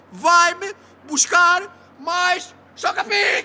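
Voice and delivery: dragged-out tearful yell; slow crying shout. Acted. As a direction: bawl the order out slowly. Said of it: "tu não me ouviste bem". (grito choroso e arrastado)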